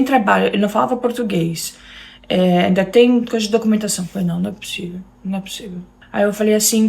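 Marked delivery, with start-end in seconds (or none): 4.3-5.8 quiet, quick mutter to herself; disbelieving mutter. Retold or imitated. To herself, doubting the husband's move plan, quiet disbelieving mutter. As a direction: mutter it under your breath, stunned.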